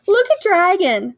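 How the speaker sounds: high, loud jeering call; mocking cry. A narrator's reading. Party animals jeering at soaked Dragon, high mocking cry. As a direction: tease him from the crowd. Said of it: "they cried".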